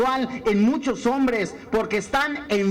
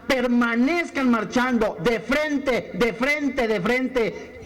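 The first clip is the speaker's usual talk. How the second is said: mandato solemne; slower than usual. Retold or imitated. Voz de Dios por Moisés.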